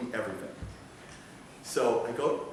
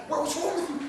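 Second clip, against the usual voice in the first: retold scream; 3 dB louder than usual. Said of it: "Screaming at him".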